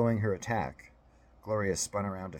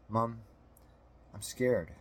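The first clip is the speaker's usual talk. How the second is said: put-on scared child; 4 semitones higher, slower than usual. A narrator's reading. Frightened boy speaks to his mother.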